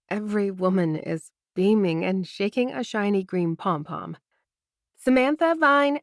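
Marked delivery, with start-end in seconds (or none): 5.0-6.0 excited cheer. Acted. Friend cheers her arrival.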